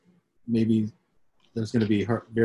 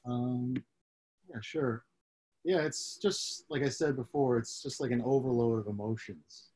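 timid agreement; 9 dB quieter than usual. Real, not acted. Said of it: "hesitant agreement, very quiet".

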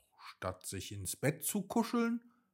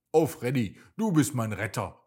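louder, fast burst of relief and delight; joyful exclamation; 7 dB louder, faster than usual. A narrator's reading. Hopsi thanks Freddy the fox for finding the carrot, loud joyful cry. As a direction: cry out thankfully to your rescuer. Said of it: "rief Hopsi und umarmte den Fuchs".

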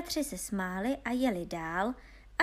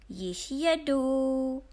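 long drawn-out, higher call; stretched storybook holler; 4 semitones higher, 4 dB louder, much slower than usual. A narrator's reading. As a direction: sing out the words slowly as you ride. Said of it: "zvolal Honza a dal se do zpěvu".

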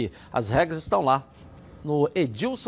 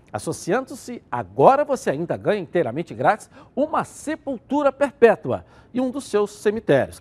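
infomercial. Acted. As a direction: push it like a TV infomercial. Host reads funeral plan ad.

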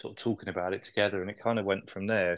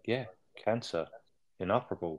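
deadpan. Retold or imitated. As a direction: shrug off the diagnosis, unbothered. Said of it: "very deadpan the way he delivers it".

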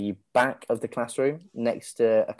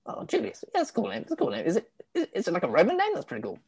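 higher, much softer eager chatter; eager chihuahua; 7 semitones higher, 7 dB quieter, faster than usual. Acted. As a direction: gush quietly like a lonely little dog. Goofy chatters excitedly.

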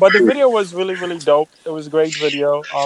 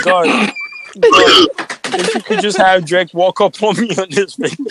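mock prayer; 2 semitones higher than usual. Praying to be in video.

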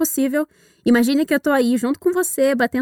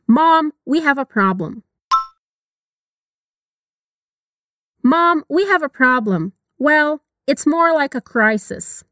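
slow, clear repetition lines; slow model reading; slower than usual. Shown as a demonstration. Teacher modeling the dialogue slowly for learners. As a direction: give the lines slowly to repeat.

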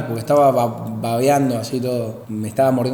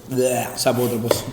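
gangoso; 3 semitones lower, 4 dB quieter than usual. Real, not acted. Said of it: "me estaba gangoseando".

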